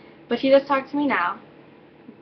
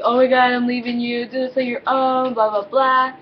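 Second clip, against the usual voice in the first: louder imitation of a dramatic boyfriend; mock outburst; 2 semitones higher, 4 dB louder than usual. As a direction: act out an exaggerated breakup rant, mockingly. Mock imagined breakup reaction from boyfriend.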